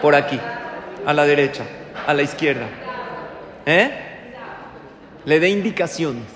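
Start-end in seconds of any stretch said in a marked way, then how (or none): 0.0-4.1 nagging wife. Retold or imitated. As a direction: bark the turns like a bossy copilot wife. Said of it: "su esposa todo el tiempo que le diga". (esposa mandona dando indicaciones en voz alta)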